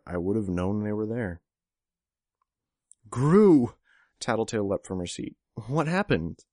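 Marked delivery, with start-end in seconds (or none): 3.1-3.8 high, loud call of alarm; alarmed cry. A narrator's reading. Tattletale leaping up at her hurt teammate's arrival, alarmed cry. 5.7-6.5 high, loud, urgent question; alarmed question. A narrator's reading. Tattletale to her wounded teammate, alarmed question.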